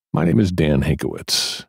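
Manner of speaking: low, measured meditation voice with long pauses; guided relaxation. Acted. Voice actor leading listeners through a guided relaxation, calm meditation voice. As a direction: ease the listener into calm, unhurried and even.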